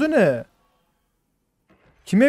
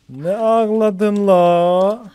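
mocking drawl; 3 semitones higher, 6 dB louder, much slower than usual. Real, not acted. Mocking a crying teammate in game.

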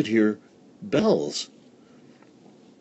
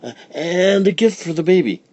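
much higher, calling out; excited cry; 10 semitones higher, 5 dB louder than usual. Acted. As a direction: call after them eagerly. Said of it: "cried Befana".

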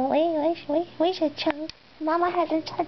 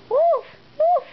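mock bark; 10 semitones higher, 4 dB louder than usual. Barking at the cat playfully.

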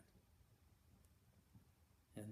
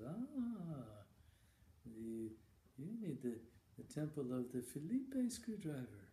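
put-on an old monk explaining it patiently; 2 semitones higher, slower than usual. Old monk answers Randy.

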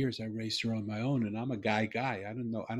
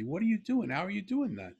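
higher, stunned questions tumbling out; astonished disbelief; 9 semitones higher than usual. Retold or imitated. Father to his daughter who just spoke clearly, astonished. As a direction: sound floored by what you just heard.

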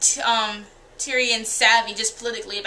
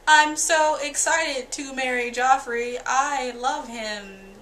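mock-dreamy Sansa; much slower than usual. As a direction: drag it out like a starry-eyed girl. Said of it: "Sansa's like".

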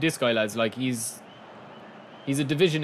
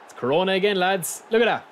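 excited; 6 semitones higher, 4 dB louder than usual. Real, not acted. Goal replay excitement.

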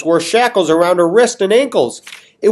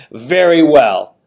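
slow deliberate king; 5 dB louder, much slower than usual. Acted. King replies slowly.

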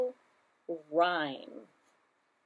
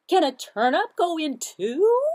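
high, loud silly duck; squeaky duck voice; 8 semitones higher, 11 dB louder, slower than usual. Acted. Duck's line in story.

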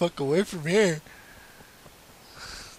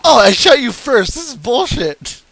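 loud indignant shout; furious protest at the game; raging gamer; 5 semitones higher, 7 dB louder than usual. Real, not acted. Angry at game.

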